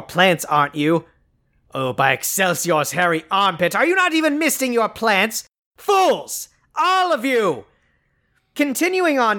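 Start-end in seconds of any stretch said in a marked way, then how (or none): 1.7-7.6 rising to a villainous yell; megalomaniac rant. Acted. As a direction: shriek "Fools!" like a cartoon villain. Skeletor bursts into a rant.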